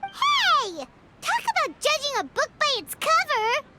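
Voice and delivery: a high offended squawk of protest; indignant. Acted. Paimon objects to being called dim, indignant and high. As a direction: call out the insult, huffy. Insulted by newcomer remark.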